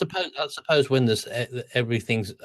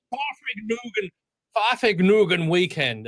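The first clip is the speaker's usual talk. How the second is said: puzzled; 9 semitones higher than usual. Retold or imitated. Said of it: "And I thought".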